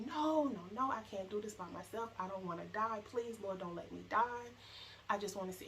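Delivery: retold terrified pleading; pleading scream. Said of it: "I'm just screaming".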